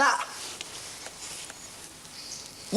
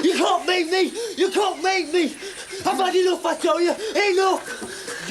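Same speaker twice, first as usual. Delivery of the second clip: hysterical defiance; 5 semitones higher than usual. Acted.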